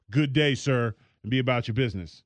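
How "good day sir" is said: put-on understated old-fashioned good day. Shown as a demonstration. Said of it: "a good old-fashioned".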